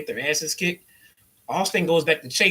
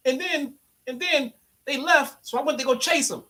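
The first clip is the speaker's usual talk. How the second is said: higher-pitched, eager rambling alibi; mock wrestler explaining to cops; 7 semitones higher than usual. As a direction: babble the excuse like a guilty kid. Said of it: "you gotta now tell the cops what happened".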